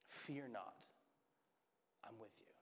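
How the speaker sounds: very soft, low and hushed; gentle whisper. Acted. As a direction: drop to a hushed, reassuring near-whisper. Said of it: "I can hear him whisper".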